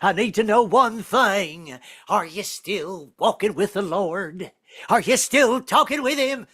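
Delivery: lightly voiced preaching grandfather; preacher grandfather. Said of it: "give me personal sermons".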